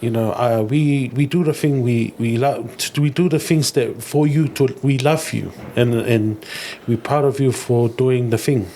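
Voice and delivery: lightly voiced proud father; a hint of dad's halting, heartfelt speech; dad impression. Son imitating dad congratulating him on his diploma, dad impression. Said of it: "I'm gonna do my best dad impression".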